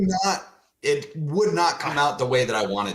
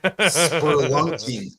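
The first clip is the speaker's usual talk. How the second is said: disgusted drawl; much slower than usual. Real, not acted. Repeating a word he hates, slow and laughing. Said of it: "I don't like that word".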